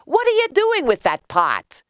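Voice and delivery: high, calling question; high-pitched townsfolk demanding to know; curious crowd. A narrator's reading. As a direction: call it out from a window. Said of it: "they asked".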